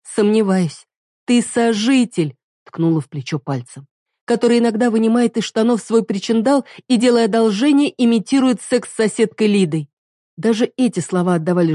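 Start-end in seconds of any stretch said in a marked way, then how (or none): 0.0-2.4 higher, scornful accusing voice; hurt wife scorning her partner; bitter reproach. Acted. Heroine confronts partner. 4.2-9.9 higher, scornful accusing voice; hurt wife scorning her partner; bitter reproach. Acted.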